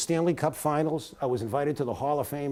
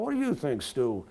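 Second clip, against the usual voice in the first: southern drawl. Retold or imitated. Ex-player asking his co-host's opinion, in a light southern drawl. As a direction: imitate a southerner with a slight drawl. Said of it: "in this southern drawl".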